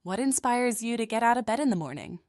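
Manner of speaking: gently soothing, unhurried question; lightly voiced soothing therapist; calm, soothing therapist. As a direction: ask it calmly, like a therapist. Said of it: "With a calm, soothing voice".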